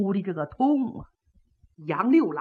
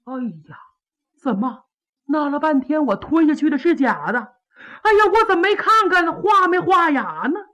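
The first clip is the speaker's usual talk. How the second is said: dismayed villain; 4 semitones higher than usual. Acted. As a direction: beg to see the paper in alarm. Pan panics over the trick.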